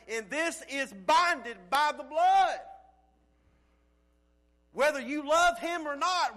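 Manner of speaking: loud, impassioned preaching; yelling. Real, not acted. Preacher yelling to the congregation that He will never walk away, impassioned. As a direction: raise it high and loud, driving the point home. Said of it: "That's why I'm yelling".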